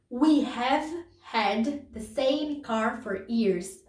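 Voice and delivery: very slow, each word separate; slow model reading for students. Shown as a demonstration. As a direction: dictate it slowly to the class. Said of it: "repeats example sentence".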